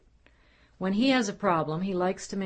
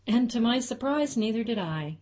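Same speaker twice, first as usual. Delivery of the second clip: with a smile; 5 semitones higher, 3 dB louder than usual. Acted. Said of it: "he said with a smile".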